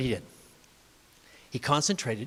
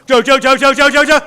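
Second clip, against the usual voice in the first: building threat; 6 semitones higher, 12 dB louder, faster than usual. Acted. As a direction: build the menace step by step. Voice for video folks.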